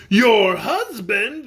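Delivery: slow, high shocked question; dismay. Acted. Tin twins hearing she married Chopfit, slow dismay. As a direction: stretch it out in dismay. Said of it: "exclaimed in dismay".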